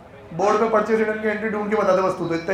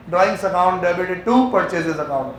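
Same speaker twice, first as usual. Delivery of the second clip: slow, word-by-word dictation to the class; 2 semitones lower, much slower than usual. Shown as a demonstration. Teacher dictating the journal entry to students, slowly. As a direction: spell the entry out slowly for notes.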